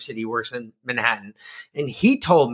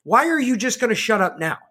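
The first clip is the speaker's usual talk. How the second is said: higher-pitched exasperated rant; indignant scolding; 5 semitones higher than usual. Acted. Host addresses Fauci over changed positions, indignant. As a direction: take an absent official to task, voice raised in pitch.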